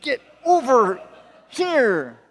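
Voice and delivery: strained, drawn-out mock plea to a cat; will the cat over without really shouting; squeezed, exasperated inner voice, acted out; silent urging. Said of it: "and I'm thinking".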